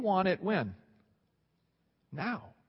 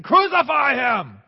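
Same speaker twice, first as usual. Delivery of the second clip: slow, louder hostile chant; angry mob cry; 6 semitones higher, 7 dB louder, slower than usual. Retold or imitated. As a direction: call it out like the hostile crowd. Crowd turning on Jesus.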